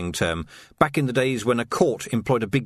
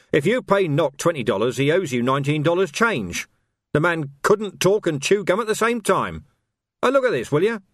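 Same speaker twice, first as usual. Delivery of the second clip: pompous captain; 5 semitones higher than usual. Acted. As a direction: rant with comic outrage. Tilden's outraged pompous rant.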